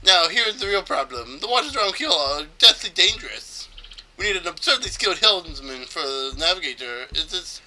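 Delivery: mock Spanish accent with a flourish. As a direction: explain it dramatically in a loose Spanish accent. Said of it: "I think it's supposed to be Spanish".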